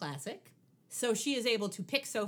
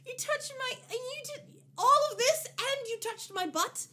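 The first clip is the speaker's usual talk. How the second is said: whiny outrage; 13 semitones higher than usual. Retold or imitated. Mocking how the thug delivers his line, high whiny. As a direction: squeal the complaint in disbelief. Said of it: "That's how the line is delivered".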